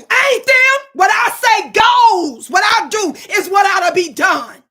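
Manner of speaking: roaring declaration at the chat; in-the-zone shout. Real, not acted. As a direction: hammer each word down. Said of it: "I'm in a zone right now".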